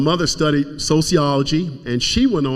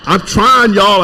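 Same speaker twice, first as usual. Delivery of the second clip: fighting tears; 6 semitones higher, 7 dB louder, slower than usual. Real, not acted. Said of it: "I'm gonna try not to cry".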